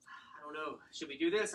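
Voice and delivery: imitated sigh into hesitant words; mock sighing uncertainty; sighing client. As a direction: sigh first, then ask as an unsure client. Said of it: "you'll see some people sigh".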